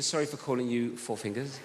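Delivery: giggling sorry to the audience member; laughing apology. Real, not acted. Apology after teasing.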